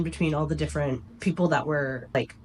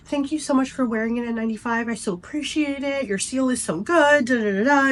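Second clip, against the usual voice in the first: gushing nurse; 7 semitones higher than usual. Retold or imitated.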